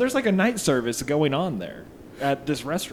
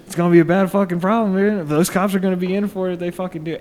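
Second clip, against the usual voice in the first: retold angry threat; 7 semitones higher, 8 dB louder, faster than usual. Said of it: "And he's like".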